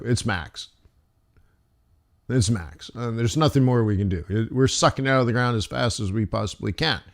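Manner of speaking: low, soft acted resignation; understated helpless answer; mock resigned reply. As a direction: drop it down, as if nothing can be done. Voicing the Saudis' helpless reply.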